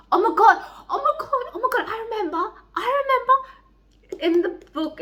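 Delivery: high, laughing gush; laughing excitement. Real, not acted. Reader laughing as she remembers an earlier book. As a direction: laugh while it dawns on you.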